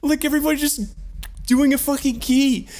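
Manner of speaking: very high, strained by laughter; laughing discomfort. Real, not acted. Storyteller among friends doing drugs, laughing at his discomfort. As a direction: whine it out while cracking up.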